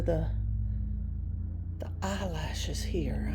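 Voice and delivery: near-whispered amazement; slow, awestruck hush; hushed awe. Real, not acted. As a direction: drop to a soft, breathy whisper, marvelling. Marvels at the prop's detailed face.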